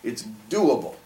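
"doable" set apart with a falling tune; stress on DOABLE. Shown as a demonstration. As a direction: lean on the "do" in "doable". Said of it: "putting the emphasis on the doing".

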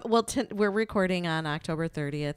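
normal talking voice

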